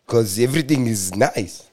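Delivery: French accent. Shown as a demonstration. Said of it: "do the French accent with the pronunciation with a bit of a deeper voice".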